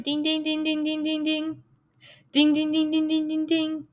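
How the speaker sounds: sung-out ding ding like a bell; bell imitation. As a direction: chime it softly like a dinner bell. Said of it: "ringing the bell like it's a dinner bell".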